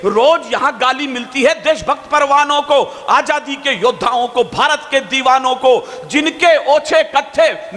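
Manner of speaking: sustained, rhythmic declamation in Hindi; chant-like verse pushed forward line by line; poetry recitation. Acted. Poet reciting new lines for patriots, impassioned declamation.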